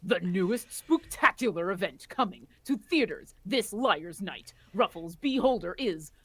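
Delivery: dramatic movie trailer narrator. Pretend. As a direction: announce it like a trailer, slowing down at the end. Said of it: "Trailer voice".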